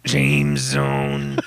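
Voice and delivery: weak half-hearted yell; a limp little shout; tepid yell. Pretend. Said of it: "That was a very tepid yell".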